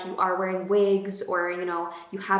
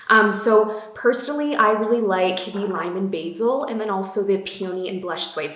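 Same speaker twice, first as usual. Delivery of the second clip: breathless after running upstairs; out of breath; 4 dB louder than usual. Real, not acted. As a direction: talk while catching your breath. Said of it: "Sorry, I'm, like, out of breath".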